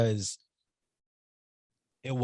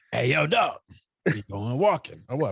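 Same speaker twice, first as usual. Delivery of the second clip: lightly voiced hood dog, pitched up at the call; straight hood dog; 2 semitones higher than usual. Dog coming up to its owner about a walk, light hood voice. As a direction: call out like a street-tough dog. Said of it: "just a straight hood dog".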